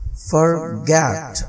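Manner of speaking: forget with schwa in for, stress on get; short weak for, strong get; end-stressed forget with reduced for; reduced first syllable. Shown as a demonstration. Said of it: "इसी तरह ये देखें".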